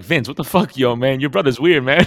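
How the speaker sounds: Lamar complaining. Retold or imitated. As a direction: yell it at Vince, baffled. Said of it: "Lamar's like".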